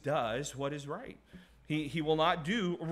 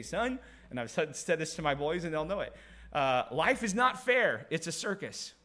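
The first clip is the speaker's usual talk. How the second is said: dad's voice, lightly done. Retold or imitated. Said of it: "he'd say".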